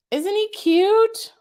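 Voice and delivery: high, slow, cooing over something cute; sing-song adoring coo; cooing gush. Real, not acted. Gushing over vintage Santa figure.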